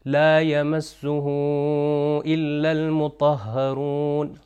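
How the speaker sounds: المطهرون with a heavy, emphatic ط; slow Quranic recitation with long vowels, thickening the ط of المطهرون; thick taa in recitation. Shown as a demonstration. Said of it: "تھوڑا سا موٹا تلفظ کیا جائے گا".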